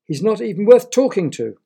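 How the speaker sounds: high, loud contemptuous sneer; disdainful. A narrator's reading. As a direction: look down on him as you say it. Suitor sneers at servant.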